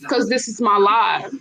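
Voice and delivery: fiery trash-talk promo; wrestling promo. Pretend. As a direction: call out a rival like a heel wrestler. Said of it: "I'm about to cut a promo".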